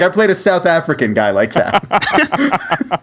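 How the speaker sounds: slow, laughing retold line; laughing quote. Stormare's retold joke, laughing slowly. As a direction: chuckle through it slowly. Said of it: "He's like".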